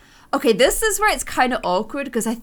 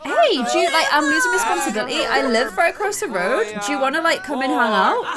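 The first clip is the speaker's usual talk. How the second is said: mock awkward invite; 3 semitones higher than usual. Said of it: "meet someone and be like".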